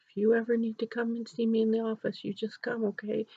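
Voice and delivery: soft, gentle offer; kindly principal. Retold or imitated. Principal tells a grieving girl to visit, kindly. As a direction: quietly reassure a child. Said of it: "who again was so lovely".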